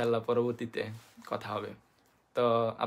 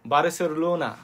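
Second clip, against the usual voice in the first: put-on Japanese English accent. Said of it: "Japanese উচ্চশিক্ষিত তারা বলবে কি".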